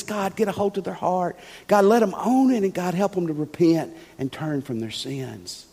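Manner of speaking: quiet prayer. Shown as a demonstration. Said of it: "one thing you need to pray is".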